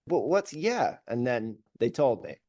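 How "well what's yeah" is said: a hint of pushy probing; pushy follow-up. Singer pressing a fan for a real answer, mildly pushy. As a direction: press them for more. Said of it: "And I said".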